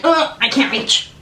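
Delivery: slow, high whiny "I can't reach"; mock straining customer. Mocking customers stuck reaching for their card, slow and high. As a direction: act out stretching for the card. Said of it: "you don't have to be like".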